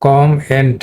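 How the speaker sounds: "কম এন্ড" with "কম" closed on m; closed-syllable breakdown. Shown as a demonstration. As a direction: divide "কম এন্ড" after the m. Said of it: "একটা close syllable হবে".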